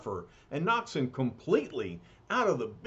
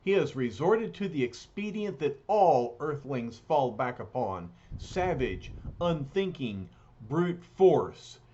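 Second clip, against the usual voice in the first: solemn hero voice. Acted. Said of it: "The surfer realizes".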